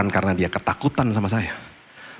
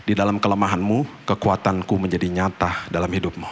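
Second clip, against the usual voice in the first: tender reassurance; 2 semitones lower, 3 dB quieter than usual. Retold or imitated. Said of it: "dia akan bilang gini".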